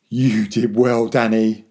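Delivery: slow, emphatic and heartfelt; proud praise. A narrator's reading. Father hugging his son after the escape, proudly.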